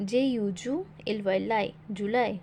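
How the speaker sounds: letters spelled in chunks, each chunk then sounded out, like "জে এ যা"; spelling syllable by syllable. Shown as a demonstration. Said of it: "ভেঙে ভেঙে পড়া".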